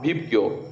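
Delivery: Vibgyor said as one word; acronym as word. Shown as a demonstration. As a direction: run the letters of Vibgyor together as a word. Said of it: "Pronounce it as Vibgyor".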